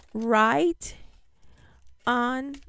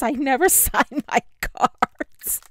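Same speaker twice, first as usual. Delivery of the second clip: laughing while quoting. Retold or imitated. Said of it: "P S".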